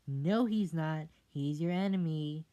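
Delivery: bossy mother voice, loud; stern scolding mother. Acted. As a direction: snap at the child like a strict mother.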